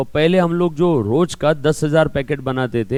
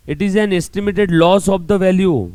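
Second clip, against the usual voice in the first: slow dictation; 3 semitones higher, much slower than usual. Shown as a demonstration. Teacher reading the textbook definition aloud for notes, slow. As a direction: read out slowly for notes.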